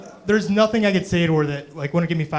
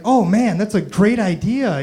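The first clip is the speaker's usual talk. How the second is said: mock enthusiasm; 6 semitones higher, 4 dB louder, slower than usual. Fake praise to customer.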